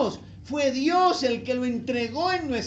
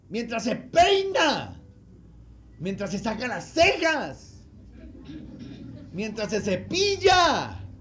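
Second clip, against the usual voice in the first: slow, loud, spaced-out phrases; unhurried listing; slow emphatic list; 4 dB louder, slower than usual. Real, not acted. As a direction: lay each moment down slowly. Listing daily moments slowly.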